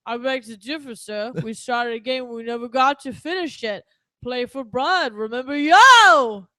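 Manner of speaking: loud punchy boxer impression, ending in a bellow; Rocky. Doc Holliday challenging Johnny Ringo, done as Rocky. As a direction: do a hammed-up slurring boxer, building to a shout. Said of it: "as good as my Rocky".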